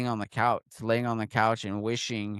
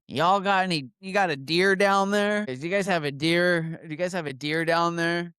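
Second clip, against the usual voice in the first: higher, louder questioning sheriff; retold sheriff on the phone; 4 semitones higher, 3 dB louder than usual. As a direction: play the sheriff calling the processor, half-mocking. Sheriff phoning deer processor.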